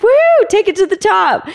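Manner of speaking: high, whooping encouragement; retold cheer. Belayer cheering climber on to the top, high whoop. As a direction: imitate a partner's high-pitched cheer from below.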